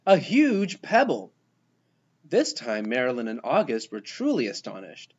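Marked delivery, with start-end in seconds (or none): 0.1-1.3 high, proud announcement; triumphant shout. A narrator's reading. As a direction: show off the find triumphantly. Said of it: "she shouted triumphantly".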